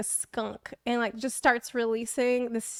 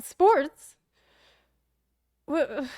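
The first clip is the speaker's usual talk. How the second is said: high, loud disbelieving echo; mock baffled salon lady; incredulous nail lady; 5 semitones higher, 3 dB louder than usual. Nail lady can't believe the answer, high loud disbelief. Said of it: "She's like".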